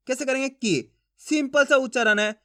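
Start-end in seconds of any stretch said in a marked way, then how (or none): 0.5-0.9 brief falling "की"; "की" kept short as a reading model; short i sound. Shown as a demonstration. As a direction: say "की" with a quick short vowel. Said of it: "इसके उच्चारण में कम समय लगेगा".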